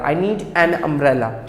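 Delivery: very slow, every word clear; slow English example sentence; slow model sentence. Shown as a demonstration. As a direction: dictate it slowly to the class. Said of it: "तो हमने बोला an umbrella".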